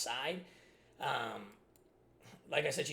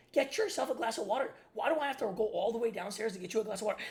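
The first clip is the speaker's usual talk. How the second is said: exasperated retort; 7 semitones higher, 5 dB louder than usual. Retold or imitated. Snapping back at mother.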